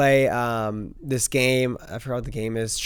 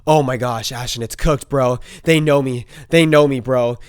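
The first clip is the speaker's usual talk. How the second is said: loud, panicky retelling of a friend; mimicking his panic; 5 dB louder than usual. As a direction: play the freaked-out friend, talking loud and fast. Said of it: "she said".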